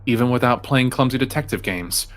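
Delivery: measured read-aloud narration; story narration. A narrator's reading. Player reading the game's text to friends, measured narration.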